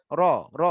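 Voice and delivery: "র" with the tongue turned to its underside; curled-tongue R. Shown as a demonstration. Teacher showing the tongue turn, curled-tongue R. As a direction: curl the tongue back for each "র". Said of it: "জিহ্বাটাকে এরকম ভাবে আমরা ঘুরিয়ে".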